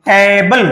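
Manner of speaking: strong opening టే in టేబుల్, light ending; stress on first syllable. Shown as a demonstration. Teacher demonstrating word stress on the first syllable of టేబుల్. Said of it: "ఇది ఎక్కువ stress చేస్తాం".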